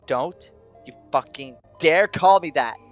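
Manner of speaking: slow, loud threat; angry. A narrator's reading. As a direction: bite back with drawn-out fury. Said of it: "glaring at me angrily".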